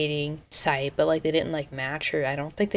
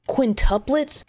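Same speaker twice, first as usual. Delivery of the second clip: incredulous question; 7 semitones higher, slower than usual. Real, not acted. Mock horror at more babies.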